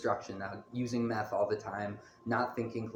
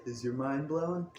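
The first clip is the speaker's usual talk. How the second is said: slow, slightly raised, mock-creepy question; drawn-out teasing lilt, lightly creepy; creepy taunt; 4 semitones higher than usual. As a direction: imitate a creepy, taunting smile. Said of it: "with a creepy smile".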